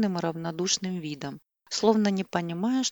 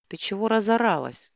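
louder, irritated snap; losing his temper; 4 semitones higher, 5 dB louder than usual. A narrator's reading. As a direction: snap back at her. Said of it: "вдруг не выдержал Макс". (раздражённо, громче)

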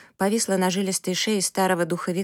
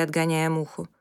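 ordinary delivery

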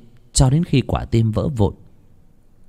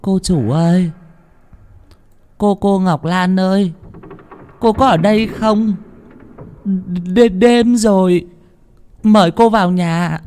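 high, shaky calling into the dark, much higher; calling out loud; 9 semitones higher than usual. Acted. Cook calls for the missing girl at night, nervous loud call. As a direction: call loudly to drown your fear. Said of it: "gọi to để cho bớt sợ".

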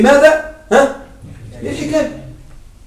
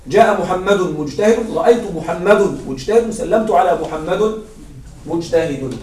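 slow recital; 4 semitones lower than usual. Shown as a demonstration. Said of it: "فيبقى محمد مجتهد في الأحوال كلها".

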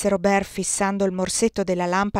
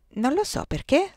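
sbadigliando; 8 semitones higher than usual. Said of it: "sbadigliò Robert".

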